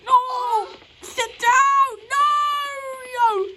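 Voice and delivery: a child playing parent shouts at a toy; pretend scolding. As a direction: boss the toy into sitting.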